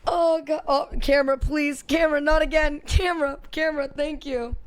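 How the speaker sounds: loud, high-pitched begging; pleading with camera. Real, not acted.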